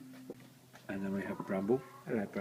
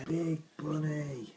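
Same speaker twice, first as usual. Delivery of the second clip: slow whisper; 4 semitones higher, much slower than usual. Real, not acted. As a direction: breathe it out slowly, hushed. Whispering to a bunny.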